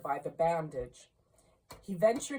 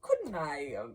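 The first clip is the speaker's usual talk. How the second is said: hopeful hint; 7 semitones higher than usual. A narrator's reading. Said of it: "hinted Scrooge".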